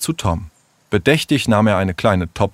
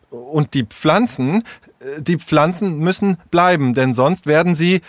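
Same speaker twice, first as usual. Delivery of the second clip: higher, halting, flustered objection; agitated; 6 semitones higher than usual. Acted. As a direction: stumble over your protest, worked up. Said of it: "aufgebracht wedelte er". (aufgebracht und stockend)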